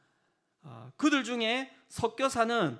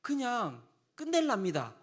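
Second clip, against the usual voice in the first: fed-up Moses; 5 semitones higher than usual. Acted. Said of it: "짜증이 나서 이야기를".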